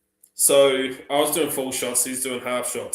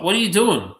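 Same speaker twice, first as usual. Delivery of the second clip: surprised question; 8 semitones higher, 7 dB louder than usual. Retold or imitated.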